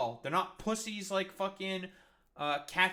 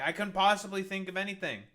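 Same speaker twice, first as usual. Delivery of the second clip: sarcastic; faster than usual. Real, not acted. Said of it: "I wonder why".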